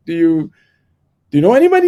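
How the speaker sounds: the landlord, amazed he has no contacts; incredulous. Retold or imitated. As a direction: ask in total astonishment. Landlord incredulous at his plan.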